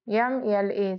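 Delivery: letters spelled out one by one, slowly; slow spelling. Shown as a demonstration. Teacher spelling a name slowly for students. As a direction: dictate each letter slowly for the class. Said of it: "तो कैसे".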